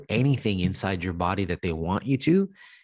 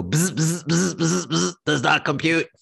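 robot voice; 6 semitones higher than usual. Acted. Machine glitching.

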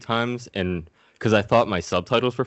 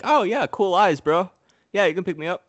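much higher, louder dude voice; chill baby; 10 semitones higher, 4 dB louder than usual. Retold or imitated. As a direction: voice the baby as a laid-back bro. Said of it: "And it's just like".

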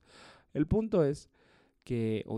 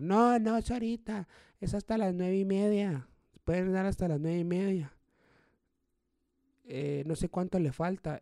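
high, loud screeching protest; hotel manager yelling; 9 semitones higher, 4 dB louder than usual. Retold or imitated. Hotel manager yells at the comedian to stop, loud and high. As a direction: shriek it at the comic on stage. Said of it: "empieza a gritar".

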